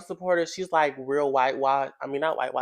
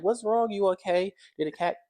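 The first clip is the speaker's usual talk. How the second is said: petty teasing; 4 semitones higher than usual. Retold or imitated. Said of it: "I like to start stuff with her".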